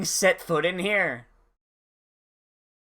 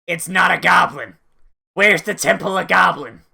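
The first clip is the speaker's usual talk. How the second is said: louder, mock-indignant call-out; loud complaint; 5 dB louder than usual. Real, not acted. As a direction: protest at the screen. Complaining loudly at the screen.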